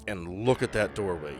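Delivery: ordinary talk, nothing marked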